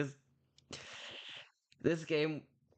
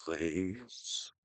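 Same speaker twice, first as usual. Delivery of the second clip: hopeless whimper; 5 semitones lower, much slower than usual. Acted. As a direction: give up hope, barely there.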